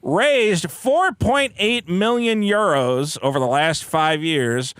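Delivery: deliberate mock-newscast delivery; news read. Co-host reads a charity scandal story, news read.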